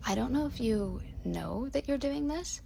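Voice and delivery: high, slow, careful heads-up; tentative heads-up. Retold or imitated. Friend leaning in to point it out.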